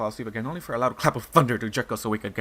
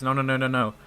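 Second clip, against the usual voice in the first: mildly louder frantic no's; crying protests; 2 semitones higher, 6 dB louder than usual. Acted. Pyrseed refusing to calm, crying no. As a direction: stamp out each no. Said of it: "in time with her cries".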